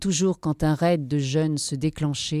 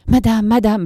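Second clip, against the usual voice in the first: stammering plea; 6 semitones higher, 6 dB louder than usual. A narrator's reading. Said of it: "balbutia Saggini".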